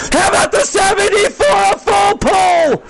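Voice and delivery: tractor pull announcer. Real, not acted. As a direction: stretch full pull like a showman. Hyping a big move on track.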